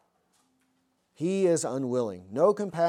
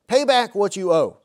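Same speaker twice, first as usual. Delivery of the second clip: demanding quote; 5 semitones higher, 8 dB louder than usual. Acted. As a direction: read a touch louder and higher, a firm demand. Slave demanding repayment of debt.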